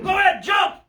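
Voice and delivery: high, loud shouted jump command through laughter; laughing yell. Retold or imitated. Fisherman retelling how he yelled at his mate on the whale, laughing shout. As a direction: holler at him from the boat, half laughing. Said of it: "I'm yelling to him".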